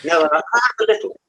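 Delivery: put-on playfully indignant, high and loud, in a broad Black Country accent; hammed-up offended local, Black Country accent thick; Black Country accent pushed to the max, mock outrage. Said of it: "you've not lost, uh, your accent either".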